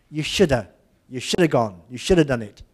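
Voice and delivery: "shoulda" run together as one quick word; reduced shoulda. Retold or imitated. Teacher voices Miss Lamont modelling the reduced form "shoulda". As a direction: rattle off "shoulda" casually. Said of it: "Miss Lamont would say".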